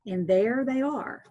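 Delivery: clear, steady read-aloud storyteller voice; story narration. A narrator's reading. Teacher reading a folk tale to listeners, gentle storytelling. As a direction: read it like a bedtime tale for children.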